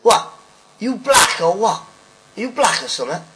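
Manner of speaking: imitating a drunk heckler yelling at the comic; mock heckler shout. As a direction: bellow it from the back of a dark room. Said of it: "he shouts out".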